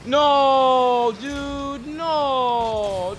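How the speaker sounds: high pleading no; dismayed cry. Real, not acted. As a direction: whine in dismay. Losing the ball.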